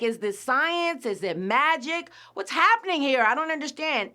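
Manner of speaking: high, loud confused cry; mock bafflement. Vlogger acting out the kingdom's confusion, baffled. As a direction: throw up your hands in confusion.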